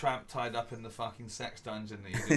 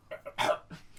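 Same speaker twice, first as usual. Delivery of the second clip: imitated hacking cough; 4 dB quieter than usual. Imitating spitting out blood clots.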